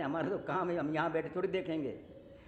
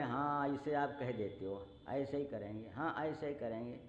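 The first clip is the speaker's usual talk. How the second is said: lower, softer echo of a promise; sceptical echo; 4 semitones lower, 3 dB quieter than usual. Acted. Lakshman answers the Lord's easy promise, lower sceptical echo. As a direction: repeat the assurance back, voice dropping. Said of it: "Lakshman बोले".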